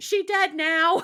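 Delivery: shrill, very loud, very high shriek. Telling how he screamed in the middle of a major theater, imitating someone screaming. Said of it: "he just screamed".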